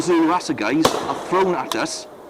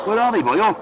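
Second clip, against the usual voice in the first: put-on higher, lilting Welsh accent; strong Welsh accent; 5 semitones higher than usual. A narrator's reading. One of the lads asks where they are, strong Welsh accent. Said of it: "with a very strong Welsh accent".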